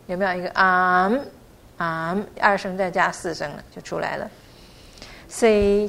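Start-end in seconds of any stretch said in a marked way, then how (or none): 5.3-5.9 C held level in first tone. Shown as a demonstration. Teacher shows learners the syllable, C held level. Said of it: "C一声的".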